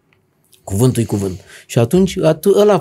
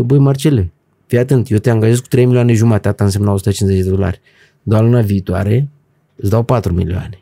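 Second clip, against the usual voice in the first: lightly voiced boss, lower pitch; retold boss; 6 semitones lower than usual. Supermarket boss promising raises to his new employee, lightly imitated in a low voice. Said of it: "Mi-a zis ăla".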